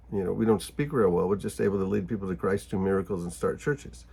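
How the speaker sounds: deadpan understatement, trailing off; tongue-in-cheek sarcasm. Acted. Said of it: "Just talking tongue-in-cheek, sort of sarcastic".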